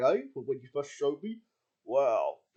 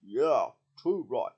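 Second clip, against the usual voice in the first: put-on Australian accent; 4 semitones lower, much slower than usual. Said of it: "speak in Australian".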